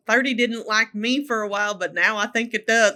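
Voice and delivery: put-on a light, half-hearted Southern accent; bad Southern accent. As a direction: player quoted in a mock Southern accent. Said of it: "I'm gonna do a bad Southern accent".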